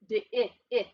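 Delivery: "di-, it, it" with the short i isolated and repeated; short I sounded out. Shown as a demonstration. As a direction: break off "di-" and echo its short i. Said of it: "he's making his short sound".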